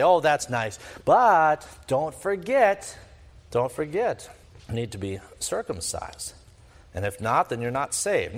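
put-on pat a child on the head with your voice; condescending. Judaizers humoring a new believer, condescending. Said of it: "they'd pat him on the head and say".

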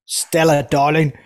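light mock Cockney; a faint London accent, played for laughs. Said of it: "that's my best London accent for you".

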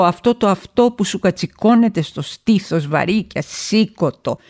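ordinary delivery

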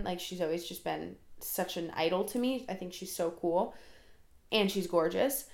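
slightly breathless talking; running short of air mid-sentence; out of breath. Real, not acted. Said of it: "Why am I getting out of breath?".

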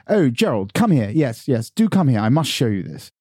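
high, hammed-up posh lady; high-pitched posh English caricature; posh women. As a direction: imitate posh women summoning someone. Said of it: "Sort of the women are running around going".

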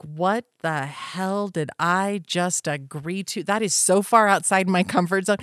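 hammed-up second thoughts; mock regret. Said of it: "And then later you're like".

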